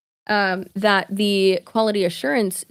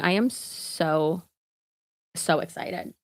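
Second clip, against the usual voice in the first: slow, softer, half-whispered gush; hushed excitement; 2 semitones lower, 5 dB quieter, slower than usual. Retold or imitated. Sister telling her brother about his next tattoos, slow hushed gush. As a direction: breathe it out with giddy delight.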